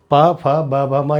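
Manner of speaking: पा, फा, बा, भा, मा with both lips pressed together; syllable drill of पा, फा, बा, भा, मा; lip sounds drill. Shown as a demonstration. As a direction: sound out पा, फा, बा, भा, मा one by one. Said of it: "बिना होंठ की सहायता के नहीं बोल सकते".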